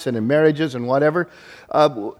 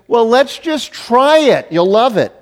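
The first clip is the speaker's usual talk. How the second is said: a hint of the wife, higher and louder, coaxing; 9 semitones higher, 6 dB louder, slower than usual. Husband mimics his wife urging him to camp, mild coaxing. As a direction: lightly voice her cheerful urging. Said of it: "what she keeps saying is".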